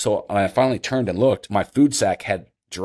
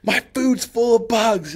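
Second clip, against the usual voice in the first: much higher, slow exasperated wail; disgusted wail; slower than usual. Retold or imitated. Hunter telling John about the bugs, a high slow whine. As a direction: whine it out in disbelief.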